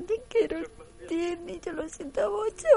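high, sugary lovers' voice; hammed-up sweet declaration; mock tender soap line. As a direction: coo it like a telenovela. Voicing the couple's lines.

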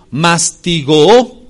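mastigó with a long double O at the end; doble O alargada. Shown as a demonstration. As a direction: draw out the final O of mastigó, slowly. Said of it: "con doble O, así como se oye". (mastigó con doble O final, alargada)

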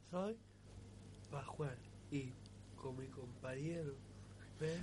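off mic, faint and distant; far from mic. Real, not acted. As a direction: voice too far from the microphone. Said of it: "Acércate al micro para que en casa te escuchen bien".

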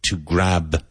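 GRAB with a voiced B at the end; strong final B. Shown as a demonstration. Teacher reminding learners of the ending, strong B in "grab". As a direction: finish "grab" on a firmly sounded B. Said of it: "Don't forget that strong B".

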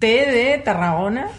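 slow letter-by-letter spelling. Shown as a demonstration. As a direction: spell the letter with a place name. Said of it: "Voy a ir letra por letra".

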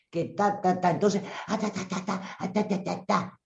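soft rapid ta ta ta mimicking being cut off; a hushed mock babble of someone interrupting; acted interruption. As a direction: quietly rattle off the syllables like chatter. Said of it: "Te lo estoy actuando".

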